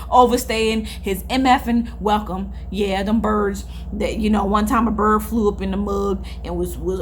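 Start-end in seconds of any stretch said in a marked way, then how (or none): 0.1-2.5 laughing. Real, not acted. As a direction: laugh while telling it. Laughing at bird story.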